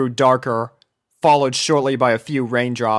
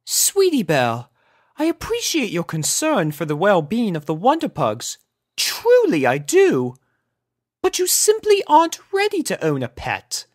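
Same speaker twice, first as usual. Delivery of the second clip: higher, gentle tone; sympathetic; 8 semitones higher than usual. A narrator's reading. Rarity gently explaining to her little sister. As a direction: let her down kindly. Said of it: "more sympathetic tone".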